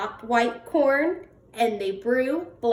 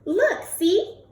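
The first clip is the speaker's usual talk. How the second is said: much higher, squeaky and comforting; squeaky mouse; 13 semitones higher, slower than usual. Acted. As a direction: squeak to cheer up the bear. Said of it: "Mouse squeaks".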